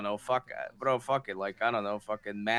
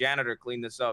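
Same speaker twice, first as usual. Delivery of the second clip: ordinary delivery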